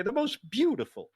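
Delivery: Trump-style brag. Retold or imitated. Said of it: "like Trump would say".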